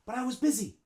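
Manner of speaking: "But I was" run together as "bud-eye-wuz"; one linked word. Shown as a demonstration. Teacher models it like one word, linked. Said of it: "We say, like, one word".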